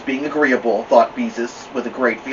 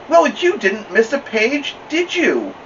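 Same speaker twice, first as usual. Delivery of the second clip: higher, slower wry question; dry librarian; 11 semitones higher, slower than usual. Acted. Librarian dryly asking the little girl, high and slow. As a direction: tease her gently about the ruined book.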